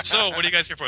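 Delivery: reporter voice. Retold or imitated. News reporter quoted.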